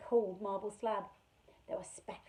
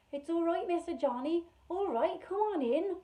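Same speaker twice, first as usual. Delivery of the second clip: called softly; 8 semitones higher, 5 dB louder than usual. Acted. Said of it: "Hepzibah called softly into the darkness".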